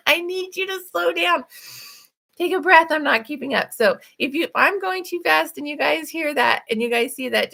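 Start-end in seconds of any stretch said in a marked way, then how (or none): 0.1-3.7 imitating classmate. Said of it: "one of the ladies like".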